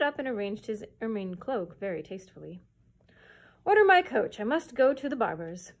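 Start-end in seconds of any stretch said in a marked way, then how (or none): 3.6-5.7 grand, loud royal order; magnificent command. Acted. King showing off to his court, loud and grand. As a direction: boom it out like a proud king. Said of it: "he said magnificently".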